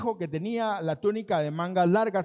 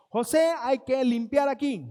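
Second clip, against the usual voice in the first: orden del amo; 4 semitones higher, 4 dB louder than usual. Acted. Amo dando órdenes a José.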